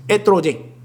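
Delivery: Estrogen as "eh-tro-din" in a mock Spanish accent; Spanish-style, drop the s in "Estrogen". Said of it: "Why do I have a Spanish accent".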